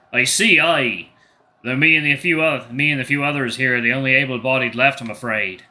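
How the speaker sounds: put-on a light Scottish lilt for the old soldier; lightly Scottish bovine. Bovine commander answers the bear, light Scottish accent. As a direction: give him a touch of a Scots burr. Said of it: "I should do a different accent for this guy".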